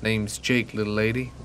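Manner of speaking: a hint of a Southern man's greeting; southern accent. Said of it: "said in a southern accent".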